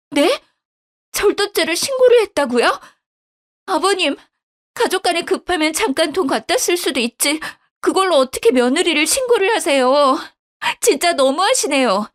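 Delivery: outraged at being reported; daughter-in-law protesting to father-in-law; shocked indignant wife. Acted.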